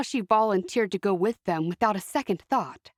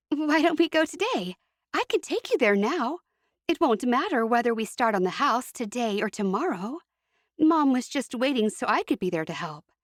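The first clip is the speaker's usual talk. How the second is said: put-on a lightly raised, eager young woman's voice; lightly voiced Annie; 5 semitones higher than usual. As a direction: Annie eagerly offers to drive them now, lightly raised voice.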